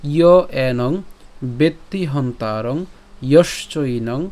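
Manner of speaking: measured, drawn-out Sanskrit recitation; slow even reading of the verse. Shown as a demonstration. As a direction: chant the whole shloka slowly. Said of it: "পুরোটি যদি আমরা একসাথে উচ্চারণ করি".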